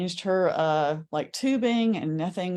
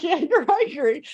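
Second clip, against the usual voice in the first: high, slow and louder gentle insistence; friend's voice; 9 semitones higher, 6 dB louder than usual. Retold or imitated. Friend gently insisting she is angry, high and slow. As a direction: press the point kindly. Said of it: "she was like".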